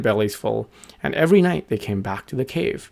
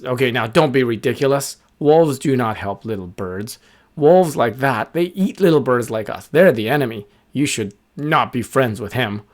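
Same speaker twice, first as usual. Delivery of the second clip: louder, stern bird gang; scolding birds; 3 dB louder than usual. Acted. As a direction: lay down the law as the bullies.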